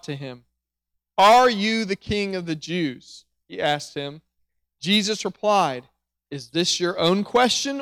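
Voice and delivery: measured, dramatic Bible reading; preacher reading the Gospel passage aloud to his church, dramatic; scripture reading. Acted. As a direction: read the passage like a storyteller to the congregation. Reads John 18 aloud to congregation.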